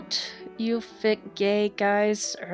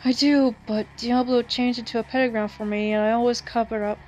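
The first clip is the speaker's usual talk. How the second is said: urgent; 2 semitones higher, 5 dB louder than usual. Acted. Urgent vision report.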